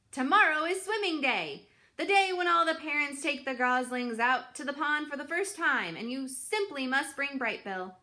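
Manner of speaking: put-on old goose Loudwing, loud and eager; bossy old goose. A narrator's reading. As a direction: tell Roz she simply must come. Loudwing tells Roz of swim day.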